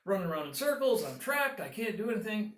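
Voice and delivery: mock panic. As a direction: throw up your hands in mock despair. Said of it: "throw your hands up in the air and go".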